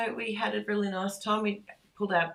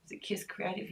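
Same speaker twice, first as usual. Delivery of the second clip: whispered aside; 2 semitones higher, 7 dB quieter, faster than usual. Real, not acted. Asks Sarah off to the side.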